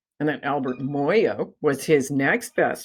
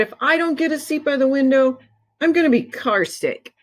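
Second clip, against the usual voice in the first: put-on whiny kid plea; 9 semitones higher than usual. Child whining about window seat.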